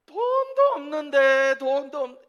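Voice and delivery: slow, loud, high Gyeongsang protest; drawn-out Gyeongsang fuss about money; hammed-up Gyeongsang accent, slow; Gyeongsang dialect man. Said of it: "표현을 어떻게 하냐면".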